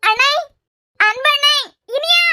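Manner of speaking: tearful high cries of his name; crying out for help. Acted. Sister calling her brother in tears, crying out. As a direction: sob out the names, calling for help. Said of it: "அழுதுட்டு நிக்கிற?".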